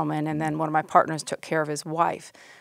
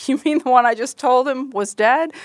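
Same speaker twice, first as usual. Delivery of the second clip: raised, louder disbelieving question; incredulous; 6 semitones higher, 5 dB louder than usual. Retold or imitated. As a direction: ask it in stunned disbelief, loud and high. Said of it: "we all looked at her like".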